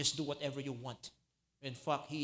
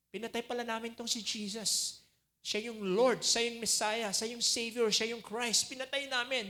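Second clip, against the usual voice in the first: anguished realization; 7 semitones higher, 3 dB louder than usual. Acted. Crowd voiced in anguish.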